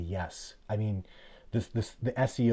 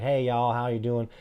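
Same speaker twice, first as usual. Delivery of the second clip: Southern drawl; 3 semitones higher, 5 dB louder than usual. Retold or imitated. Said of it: "he's talking like".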